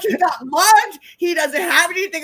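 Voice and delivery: high, loud mock desperation; acted urgent plea. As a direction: argue his case to the desk. Pleading with airline desk staff.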